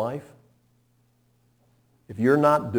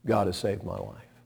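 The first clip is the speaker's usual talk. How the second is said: softer, hushed reflective musing; quiet wonder; 3 semitones lower, 8 dB quieter than usual. Retold or imitated. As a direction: wonder aloud, hushed and awed. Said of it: "And he said".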